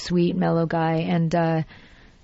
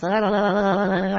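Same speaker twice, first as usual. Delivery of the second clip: SpongeBob gurgle. Shown as a demonstration. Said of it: "the thing he goes".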